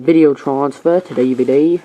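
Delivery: light mock-British accent; casually imitated British accent; put-on British accent. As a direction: slip into a hint of British. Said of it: "my accent is kinda stuck like that".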